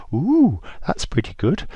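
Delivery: high, slow impressed coo; a squeaky, drawn-out "ooh" of wonder; impressed Israelites. Acted. Israelites impressed by parted sea.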